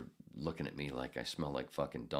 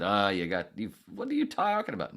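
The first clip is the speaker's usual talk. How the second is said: mock indignant listener; 4 semitones higher, 6 dB louder than usual. Imitating indignant listener quote.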